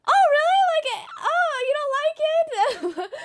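high, laughing fake surprise; laughing mock surprise. To friend who dislikes the food, laughing mock surprise. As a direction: tease him with a giggly, high-pitched "oh, really?".

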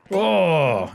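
mock grunt of effort; straining restroom groan. Shown as a demonstration. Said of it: "it's the sound that I make when I use the restroom".

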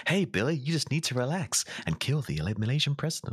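high, put-on coaxing voice; manipulative AI teacher. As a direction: coax a pupil in a mock-friendly teacher voice. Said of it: "influences them to do some crazy shit".

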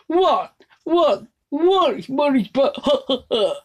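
high exclamations, then loud laugh; Count. Acted. Vlogger imitating a count, high and loud, then laughing. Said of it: "Or Count".

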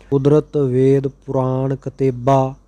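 measured, even chanting of sacred verse; scripture recitation. Acted. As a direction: recite each line steadily, phrase by phrase. Recites scripture verses between explanations.

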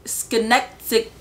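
slow, halting tries at "Schenectady"; unsure pronunciation. Real, not acted. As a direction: sound out "Schenectady" slowly and softly, trailing off unsure. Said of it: "I don't really know how to say it".

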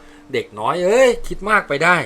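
usual speaking voice

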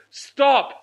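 high sharp stop, then slow proclamation; slow grand announcement; dramatic reveal. Retold or imitated. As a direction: announce yourself like a stage star.

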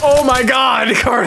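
loud, high, through laughter; laughing shout. Real, not acted. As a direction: shout it while cracking up. Laughing at the game.

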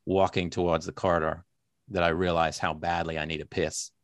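American accent regained, low narration. Shown as a demonstration. Author resuming the reading after losing it, American accent. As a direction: pick the American noir narration back up. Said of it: "I've lost the accent".

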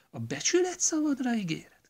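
hushed pleading whisper; whispered question. Acted. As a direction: whisper the promise request. Wife asks for his promise.

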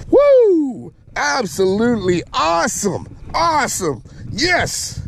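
high whoop, then delighted exclaiming; real, thrilled celebration; elated. Real, not acted. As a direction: pitch way up in triumph. Celebrating the catch.

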